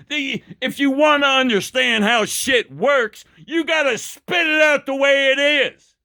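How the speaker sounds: emphatic, angry push; heated emphatic rant; loud and angry. Real, not acted. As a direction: drive the point home with heat. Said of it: "my voice gets loud and angry sounding".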